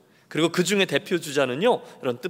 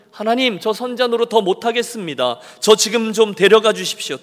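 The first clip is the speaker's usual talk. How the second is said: higher pleading complaint to God; whining plea; 5 semitones higher, 5 dB louder than usual. Acted. Elijah begging God to take him, higher. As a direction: beg like a spent prophet. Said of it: "떼를 쓰겠습니까".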